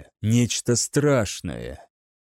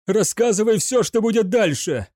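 shouted demand; 7 semitones higher than usual. A narrator's reading. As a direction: yell it to stop her crawling. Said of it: "выкрикнул он". (выкрикивая требование)

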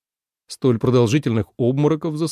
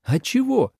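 mocking question; 12 semitones higher than usual. A narrator's reading. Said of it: "со смехом переспросил".

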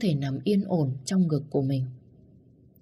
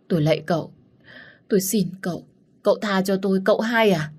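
desperate begging; 4 semitones higher, faster than usual. Acted. Beaten servant begs the young master, desperate rising pleas. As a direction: plead harder each time. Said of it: "van xin".

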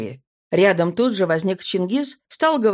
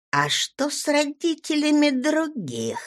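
hurried question; 8 semitones higher than usual. A narrator's reading. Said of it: "поспешила восполнить".

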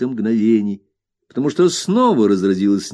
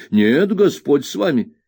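an indignant servant, voice pitched up; flustered old nurse; 6 semitones higher, 3 dB louder than usual. A narrator's reading. Peggotty voiced high.

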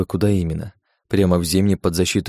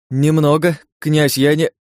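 higher-pitched, flustered objection; flustered protest; 7 semitones higher, 3 dB louder, slower than usual. A narrator's reading. Princess hesitates to take the wheel mid-chase, flustered. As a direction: protest in alarm until cut off.

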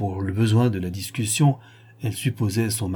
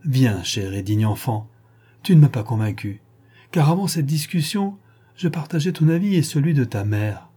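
feigned tenderness; 3 semitones higher, 3 dB louder than usual. Pretend. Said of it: "simulant un profond attendrissement".

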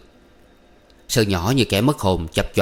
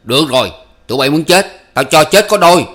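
loud, higher, furious threat; through gritted teeth; 6 semitones higher, 9 dB louder than usual. A narrator's reading. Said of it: "nghiến răng".

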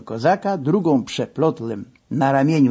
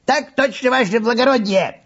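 put-on higher, chanted Russian-accented salute; mock Russian soldier; 9 semitones higher than usual. A narrator's reading. Old masseur salutes the narrator as a mock soldier. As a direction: bark it out like a tsarist private. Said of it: "wyskandował".

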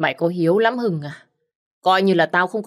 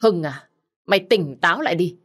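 angry rebuke; 3 semitones higher than usual. Acted. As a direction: tear into him for defying the family. Cousin rebuking Hưng angrily. (mắng giận dữ, giọng cao và to)

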